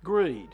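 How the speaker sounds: Greed said loud and falling; stressed greed. Shown as a demonstration. Preacher hammering the word greed. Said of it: "there's greed".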